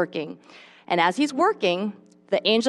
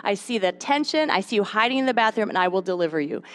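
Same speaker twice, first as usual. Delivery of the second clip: gentle reassuring voice of God. Acted. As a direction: soothe a weary mother as God. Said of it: "God will speak to you".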